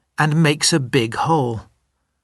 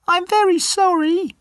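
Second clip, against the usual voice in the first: much higher, tiny mouse voice; squeaky little mouse. Acted. The little mouse apologizing to the lion, in a high squeaky voice. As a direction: play the timid mouse, high and small.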